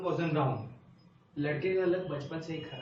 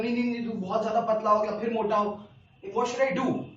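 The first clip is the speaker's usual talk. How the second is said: panicked pleading; 3 semitones higher, 4 dB louder, much faster than usual. Retold or imitated. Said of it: "तो".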